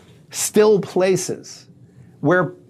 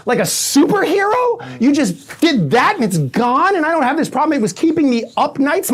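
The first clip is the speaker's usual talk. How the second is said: put-on gushing girls; 2 semitones higher than usual. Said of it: "these girls were like".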